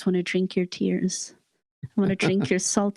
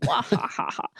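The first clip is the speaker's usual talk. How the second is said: Box evil laugh. Pretend. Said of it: "I wish I could do a really good box mwahaha".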